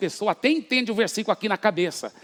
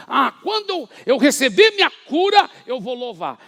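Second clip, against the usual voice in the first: mock doubter; 7 semitones higher, 7 dB louder than usual. Mocking doubter's excuse.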